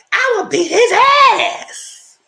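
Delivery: slow, loud, high bellow; threatening yell. Retold or imitated. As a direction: roar a threat at the catfish. He threatens the catfish.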